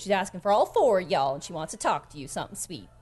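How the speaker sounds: lightly voiced folksy tavern hand; chatty, motherly character voice; friendly Skinny. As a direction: pass on a message sweetly. Plays Skinny passing on a message.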